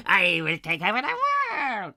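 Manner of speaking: high, loud cackling proclamation; hammed-up megalomaniac shout; evil villain. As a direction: declare world domination in a shrieking villain voice. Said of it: "You've got to have the evil laugh".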